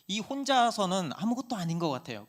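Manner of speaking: normal talking voice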